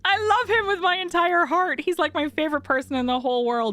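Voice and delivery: high, giggly laughing delivery; laughing through it. Real, not acted. Telling chat about granddad, laughing nervously.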